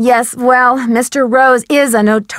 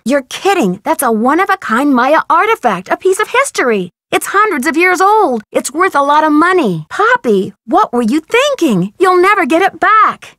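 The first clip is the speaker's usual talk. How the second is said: higher, incredulous scolding; disbelieving reproach; 3 semitones higher than usual. Acted. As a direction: chide a friend in disbelief. Scolds Poppy over the lost artifact.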